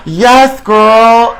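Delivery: high, loud squealing cheer; excited cheer. Real, not acted. Host cheering the drag name Fury, high and loud. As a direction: yell it out like a hype friend.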